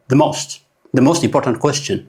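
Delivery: slow word by word. Shown as a demonstration. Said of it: "ብምሉኣ ከምታ በይና ክነንባ ከለና ኣይነንባይና".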